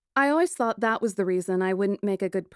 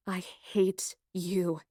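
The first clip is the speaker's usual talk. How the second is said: spat insult; 5 dB quieter, much slower than usual. Acted. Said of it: "I spat at him".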